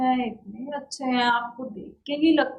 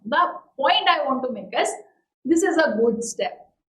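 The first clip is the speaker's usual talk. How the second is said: slow, firm this is a good step; slow deliberate point; much slower than usual. Shown as a demonstration. Teacher demonstrates making a point in a debate, slowly. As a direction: state it calmly and clearly. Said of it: "तब आप clearly कहते हैं".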